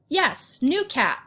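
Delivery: high, proud exclamation; a proud owner showing off his cat; proud exclaim. A narrator's reading. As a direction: say it with beaming pride. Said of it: "Mister Kim exclaimed with pride".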